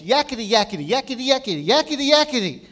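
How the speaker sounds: high, loud, rising demon chatter; shrill hollering. Retold or imitated. Preacher mimics spirit drowning out Jesus, shrill hollering. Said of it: "hollered in a shrill voice".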